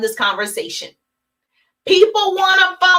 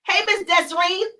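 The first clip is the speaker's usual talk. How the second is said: bright greeting; 5 semitones higher than usual. Shown as a demonstration. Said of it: "It's her cell number".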